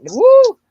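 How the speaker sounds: loud high whoop of delight. Real, not acted. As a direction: let out a sudden loud whoop. Exclamation mid sentence.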